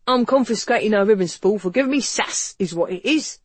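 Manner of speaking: indignant officer, voice pushed up; snapping constable. A narrator's reading. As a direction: snap it out like an irate policeman. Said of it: "the officer snapped".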